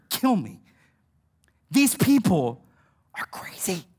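halting mock despair, sinking to a whisper; driven mad. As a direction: act fed up, fading out on the last words. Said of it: "he was driven mad to that point".

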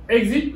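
"Exit" stressed on the opening E; teacher's demo of "Exit", front syllable stressed; stress on first syllable. Shown as a demonstration. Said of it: "l'accent est sur le E".

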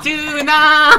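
high, drawn-out eunuch call; palace eunuch voice. Retold or imitated. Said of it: "사극이 많이 나와요".

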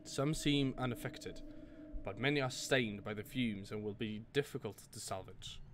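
note read in a mild put-on British accent; a hint of a British scholar reading his journal; lightly British reading of the diary. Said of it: "read it in with my British accent".

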